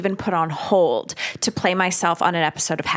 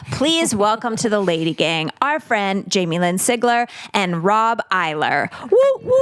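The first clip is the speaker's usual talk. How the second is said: host welcome. Acted. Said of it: "host welcomes the guests".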